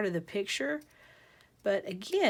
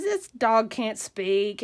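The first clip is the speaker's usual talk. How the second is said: disgusted; 5 dB louder, much slower than usual. Acted. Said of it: "He walks away disgusted".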